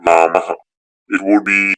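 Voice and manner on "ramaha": "ramaha" ending in an exhaled "ha"; visarga exhalation. Shown as a demonstration. Teacher demonstrating visarga after a vowel, "ramaha" with exhaled "ha". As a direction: let the last vowel of "ramaha" release into a breathy "ha". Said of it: "something of an exhalation sound".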